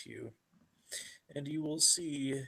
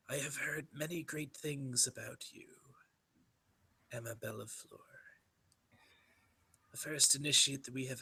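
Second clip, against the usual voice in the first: soft raspy bishop. Acted. Bishop greeting the new initiate Emma, hushed raspy praise. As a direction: let the rasp soften into a hushed, resonant welcome. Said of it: "soft resonance in that voice, that raspy voice".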